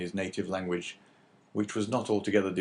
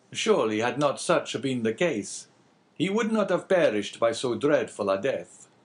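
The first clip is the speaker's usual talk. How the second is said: slightly raised, earnest character voice; lightly voiced abbé; 5 semitones higher, 4 dB louder than usual. Abbé pressing the innkeeper about the old man, lightly voiced. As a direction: lightly play a concerned priest.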